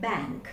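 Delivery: "bank" with a Malayali open a, as the learners say it. Shown as a demonstration. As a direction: show the common Malayali "bank". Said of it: "but we say bank".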